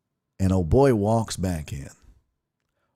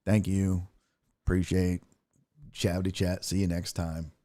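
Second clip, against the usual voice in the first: mumbled manager; 4 semitones lower, 8 dB quieter than usual. Retold or imitated. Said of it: "they're like".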